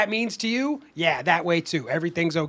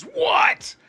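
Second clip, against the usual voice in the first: high-pitched, airy gasp of a question; breathless high-pitched demand; eager "what?"; 4 dB louder than usual. Retold or imitated. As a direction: shoot up high, dying to know. Friend's reaction, acted out.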